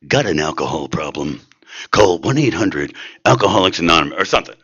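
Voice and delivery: lightly voiced movie trailer announcer; a hint of a dramatic trailer read. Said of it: "I always think about it in movie voice".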